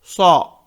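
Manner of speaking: सौ said thick and rounded; heavy Sad. Shown as a demonstration. Teacher showing students the heavy सौ, thick and rounded. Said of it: "इसे मोटा पढ़ेंगे".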